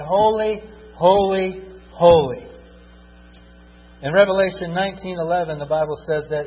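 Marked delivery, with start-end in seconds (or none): 0.0-2.5 saying holy. Acted.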